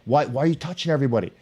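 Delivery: half-hearted imitation of a sideline dad yelling; retold yelling dad. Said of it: "he starts yelling".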